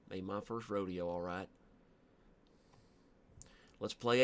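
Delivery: put-on country accent. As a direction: ramble on like a folksy yokel. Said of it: "These are the accents I'm not allowed to do".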